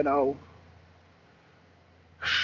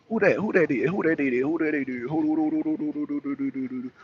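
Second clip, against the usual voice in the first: rapid rolling "who-dat-doo" babble, trailing softer; playful trilling call; 3 semitones lower, 6 dB quieter, faster than usual. Real, not acted. Streamer babbling as a viewer turns up, playful trill. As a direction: let the syllables tumble out, fading away.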